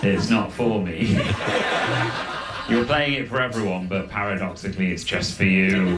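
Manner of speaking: talking through giggles; laughing quote. Retold or imitated. Commuter laughing at the boombox man, giggling. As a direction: laugh while explaining it's for everyone. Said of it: "I went".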